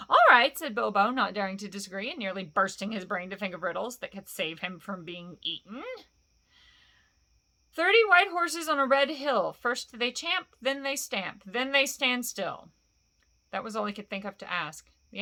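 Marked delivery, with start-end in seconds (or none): 0.1-0.6 sudden loud, higher "all right"; blurted agreement under threat; startled hobbit. Acted. Bilbo forced to agree with Gollum, blurted loud. 7.7-12.7 measured, slower riddle chant; Bilbo riddling. Acted. Bilbo asks Gollum his riddle, measured chant.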